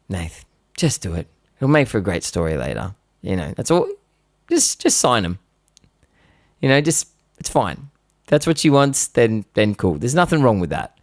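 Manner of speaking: lightly voiced laid-back dad; calm dad.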